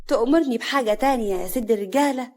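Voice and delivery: mild, coaxing offer; fawning. Acted. Woman flattering the man she serves, coaxing. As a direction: ask sweetly at his service.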